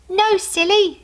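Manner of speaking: put-on little girl teasing her dad. A narrator's reading. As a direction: tease her dad cheekily. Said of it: "she said".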